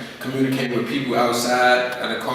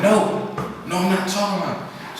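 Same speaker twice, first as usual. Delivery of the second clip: put-on angry teen refusal; 8 semitones higher than usual. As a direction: shut mom down, fed up. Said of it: "I'm like".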